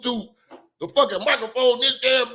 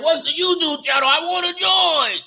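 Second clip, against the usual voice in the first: pitched-up, slowing mock of an eager fan; mock eager viewer; 6 semitones higher than usual. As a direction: play the clueless fan begging to join. Mocking a viewer's eager question.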